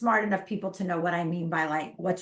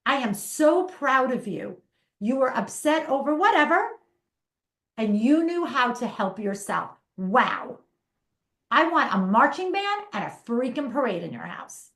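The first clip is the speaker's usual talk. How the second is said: gushing praise; 4 semitones higher, 4 dB louder than usual. Acted. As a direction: cheer the kid on like a proud parent. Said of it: "is praising them".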